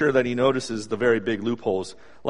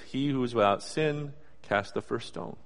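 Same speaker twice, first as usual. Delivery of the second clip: quiet verdict; 3 semitones lower, 7 dB quieter than usual. Retold or imitated.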